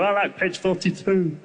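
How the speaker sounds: slow, odd monster voice; a monster picking a favourite page; monster browsing. Acted. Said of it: "monsters would come around and go".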